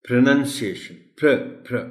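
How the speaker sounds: "پروننسیشن" starting pruh, then "پر، پر" alone as pruh, pruh; reduced first syllable. Shown as a demonstration. Teacher drilling the first syllable, "پر" as pruh. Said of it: "P R O سے شروع ہوتا ہے".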